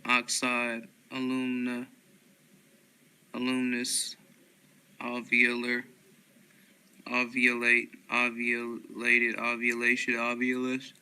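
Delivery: words stretched by a yawn. Real, not acted. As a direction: yawn while reading the words. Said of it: "I'm yawning throughout this whole thing".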